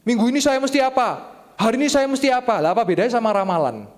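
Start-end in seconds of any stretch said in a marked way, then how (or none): 0.1-2.6 high, loud needy asking; hammed-up begging for guidance; mock pleading. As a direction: plead high like a clingy churchgoer. Voicing dependent churchgoer.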